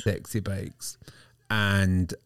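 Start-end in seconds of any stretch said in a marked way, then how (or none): 0.0-1.0 breathy suggestive whisper; sultry whisper. Pretend. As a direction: whisper it seductively. Echoing as a whisper.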